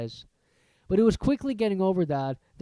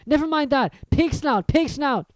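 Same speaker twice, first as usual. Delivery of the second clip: panting; 10 semitones higher, 6 dB louder than usual. A narrator's reading. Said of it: "panted Harry".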